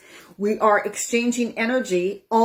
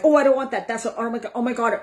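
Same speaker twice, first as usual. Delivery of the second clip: raised, alarmed oh my God; worried fretting over an unwanted feeling; mock worried panic; 4 semitones higher, faster than usual. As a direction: play the panic of not wanting to feel it. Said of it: "You get worried about it".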